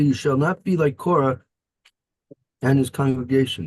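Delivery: plain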